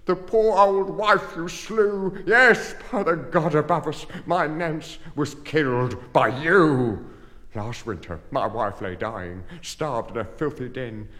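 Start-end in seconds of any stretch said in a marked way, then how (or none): 0.0-7.1 angry accusation. Acted. Pauper accuses the parish guardians.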